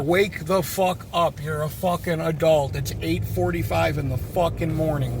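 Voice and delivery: acted exasperated telling-off, punching the swear words; aggressive. Exterminator imagines scolding a grown man still asleep, aggressive. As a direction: vent the rant you held back. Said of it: "I didn't explain it to him that aggressively".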